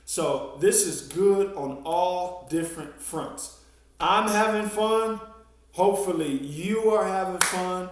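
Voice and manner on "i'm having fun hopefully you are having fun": cheerful and upbeat. Real, not acted. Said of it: "cheerful sign-off".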